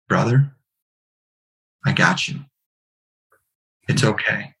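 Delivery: hushed, spaced-out comforting; calm reassurance. Retold or imitated. Friend answering his call for help, calmly reassuring. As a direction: imitate a steadying friend, pausing between phrases. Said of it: "just like this".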